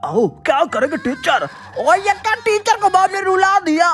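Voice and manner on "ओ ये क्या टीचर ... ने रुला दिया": high-pitched astonished exclamation; amazed surprise. Real, not acted. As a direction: marvel at the result. Teacher starts crying. (हैरानी भरी ऊँची आवाज़)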